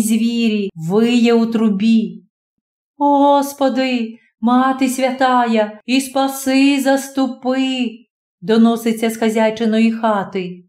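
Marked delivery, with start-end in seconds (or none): 3.0-7.9 slow, pleading prayer to God; slow frightened plea, voice lifted a little. Acted. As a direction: beg the saints slowly, half to yourself. Landlady prays in storm.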